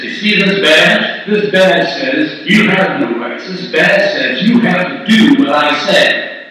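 mildly overbearing badge-waver; arrogant agent. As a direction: lay down the law, leaning on key words. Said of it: "this guy is really arrogant".

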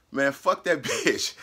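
slow, chuckling through the insult; can't keep a straight face on it; laughing retelling. Retold or imitated.

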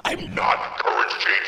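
real deep voice. Real, not acted. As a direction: drop the disguise and shout it. Voice changer off, deep shout.

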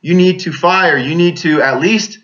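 half-voiced holler of urgent orders; retold hollering. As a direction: drive each order home, reenacting a holler. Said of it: "And I'm hollering at him".

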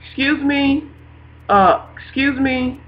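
mock-impatient interruption, lifted in pitch; calling on God. Speaker trying to get God's attention, mildly impatient. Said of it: "when I start calling on him".

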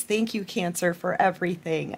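quiet, sincere gratitude; soft thanks. Real, not acted. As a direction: thank them gently and softly. Thanking viewers softly.

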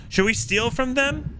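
high, slow conspiratorial whisper-tone; sneaky scheming. Acted. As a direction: plot it slyly, drawn out. Scheming aside about stealing.

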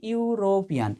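ইউরোপিয়ান said softly, starting with a ইউ sound; pronunciation demo. Shown as a demonstration. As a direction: let the ইউ in ইউরোপিয়ান come through clearly. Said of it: "ইটাকেও আমরা কার মতো উচ্চারণ করছি?". (ইউরোপিয়ান নরম গলায়, ইউ ধ্বনি দিয়ে শুরু)

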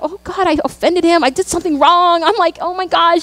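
a touch of mock panic, pitch lifted a little; retold nervousness. Daughter recalls her crying dad approaching, mildly nervous. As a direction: replay your worried thoughts, mildly nervous. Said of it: "I'm getting nervous 'cause he's approaching me".

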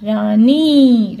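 रानी stretched out slowly and said loudly; drawn-out, loud रानी; slow clear reading. Shown as a demonstration. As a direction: spell out रानी slowly for the children. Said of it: "क्या बना?".

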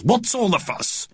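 slow, high, indignant question; stern voice. A narrator's reading. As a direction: draw it out as a stern official. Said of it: "came a stern voice".

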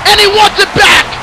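fired-up hype. Real, not acted. Commentator tells ladies and gentlemen Haru made a statement, hyped. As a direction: sell the moment to the arena.

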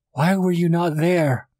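very high, slow cry of blame; high-pitched distraught accusation; anguished reproach. A narrator's reading. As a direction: wail the question accusingly, drawing it out. Anguished reproach after the killing.

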